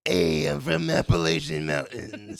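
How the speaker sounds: loud, slow hillbilly drawl; Appalachian accent. Pretend. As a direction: ham up a mountain twang. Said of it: "I got it".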